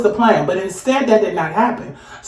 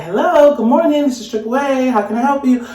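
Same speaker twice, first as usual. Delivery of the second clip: higher-pitched customer-service hello; phone operator greeting; 4 semitones higher than usual. Retold or imitated. Triple A operator answers her call, lightly voiced greeting. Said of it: "they say".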